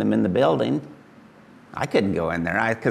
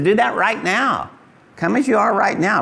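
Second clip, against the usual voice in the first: voice of Jesus; 10 semitones higher than usual. Acted. Preacher voicing Jesus, urging.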